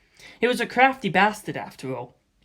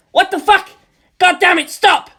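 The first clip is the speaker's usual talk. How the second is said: higher, louder panicked yell; 12 semitones higher, 9 dB louder than usual. A narrator's reading. Friend yells in panic as London is attacked. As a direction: scream at the attackers. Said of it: "John yelled".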